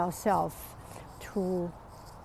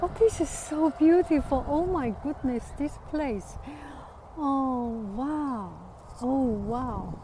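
delighted gush; 3 semitones higher than usual. Real, not acted. Admiring the scenery out loud.

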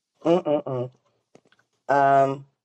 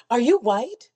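lightly voiced passenger, pitched up; higher, rising question, imitating a rider; 7 semitones higher, slower than usual. Retold passenger's pointed question.

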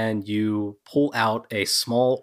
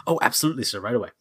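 voice of the bag; 3 semitones higher, much faster than usual. Acted. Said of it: "you get a voice inside the head that says".

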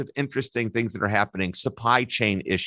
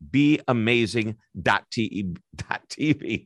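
"be amazing dot T E" tripped, fixed to "dot T V"; stumbling over words. Real, not acted. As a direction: trip over "be amazing dot T E", then fix it. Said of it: "I'm stuttering over myself".

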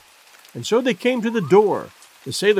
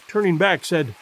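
usual speaking voice

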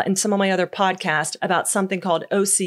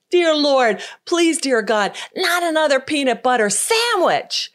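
mock prayer; 6 semitones higher, slower than usual. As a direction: cry out to God, pleading in mock despair. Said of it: "he exclaimed".

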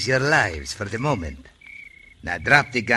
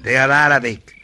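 indignant retort; 5 semitones higher, 9 dB louder, faster than usual. Acted. Ali correcting Wirt sharply.

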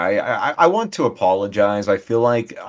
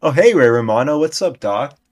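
hammed-up bit voice; 5 semitones higher, 6 dB louder than usual. Improvised Ray Romano role-play.

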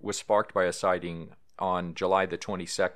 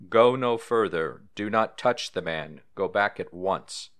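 a monk's solemn, lightly voiced rebuke; saint's stern command; 4 dB louder than usual. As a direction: order the beast back like a holy man. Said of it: "I wish I could have done that in a proper Irish accent".

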